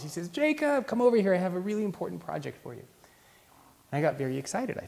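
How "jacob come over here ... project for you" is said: calling across the office, pitched high; mock boss shout. Boss calls the junior across the office, mock shout. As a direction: hail the new hire from your office door. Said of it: "he screams across the whole office".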